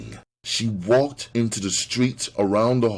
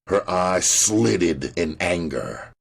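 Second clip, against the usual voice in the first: ordinary delivery, nothing marked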